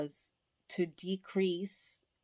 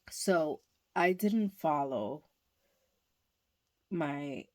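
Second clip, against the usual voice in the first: burping. Real, not acted. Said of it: "I'm burping".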